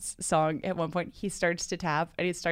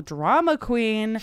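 mock yell; 4 semitones higher, 4 dB louder, much slower than usual. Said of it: "you can yell".

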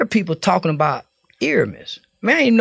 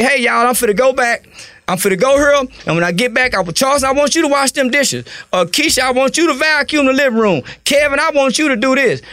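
lightly voiced grandmother giving chores; a hint of a grandmother handing out chores; calm grandmama; 6 semitones higher than usual. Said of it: "when they say it that way".

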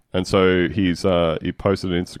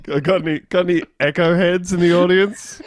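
high, louder laughing comic voice; mock stand-up; 10 semitones higher, 4 dB louder than usual. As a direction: work the crowd like a hack comedian.

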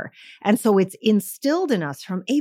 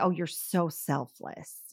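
mock praise; 3 semitones lower, 9 dB quieter, slower than usual. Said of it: "this idea".

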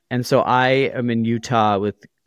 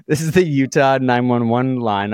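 a hint of a prim dispatcher, a bit higher; Utah 911 dispatcher; 3 semitones higher than usual. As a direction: lightly mimic a stiff operator correcting you. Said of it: "And she was like".

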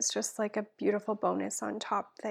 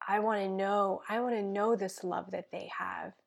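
earnest spoken prayer, dropping to a hush at times; heartfelt prayer; slower than usual. Acted. Guest praying for listeners, earnest prayer voice. Prays aloud on podcast.

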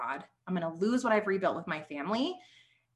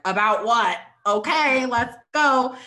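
bursting out louder and higher, all in; excited yes; 4 semitones higher, 8 dB louder, slower than usual. Retold or imitated. Woman recalling answering God's call, excited. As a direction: jump at it like a thrilled recruit.

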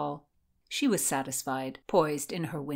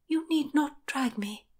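small, high-pitched protest; tiny voice; 8 semitones higher than usual. A narrator's reading. Constance submits to the guards, tiny voice. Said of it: "say in a tiny voice".

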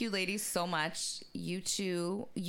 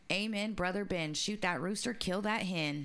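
grandma's saying; 2 semitones higher than usual. Retold or imitated. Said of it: "what my grandma used to say".

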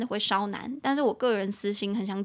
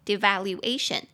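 devaluation with the A of -ation stressed; stress on fourth syllable. Shown as a demonstration. Teacher models devaluation for learners, stressing the fourth syllable. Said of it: "中音节在第四个音节".

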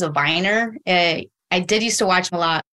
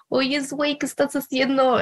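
little cat voice; 6 semitones higher than usual. Retold or imitated. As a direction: voice a small cat chatting. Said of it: "he'd be like".

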